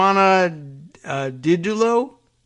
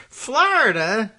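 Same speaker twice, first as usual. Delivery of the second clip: surprised; 7 semitones higher, slower than usual. Real, not acted. Baffled aside on Florida.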